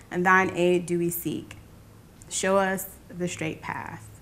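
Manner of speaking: measured, reverent recited prayer; prayer recitation. Acted. Woman praying to God for connection, measured recitation. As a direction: recite it phrase by phrase, with pauses between.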